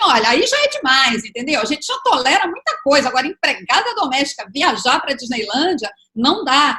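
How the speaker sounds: loud, dismissive, mocking put-on tone.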